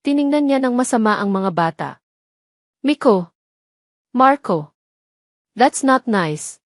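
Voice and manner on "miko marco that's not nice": mild scolding. A narrator's reading. Scolding the children.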